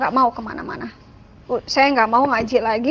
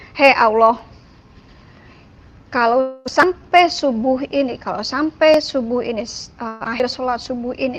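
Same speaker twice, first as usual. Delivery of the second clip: annoyed prayer. Retold or imitated. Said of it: "dengan kesel nih".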